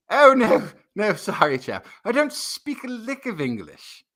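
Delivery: lightly put-on British accent, chap; mock posh English accent. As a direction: pretend to be British. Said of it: "enough of a Danish accent that I sound fluent".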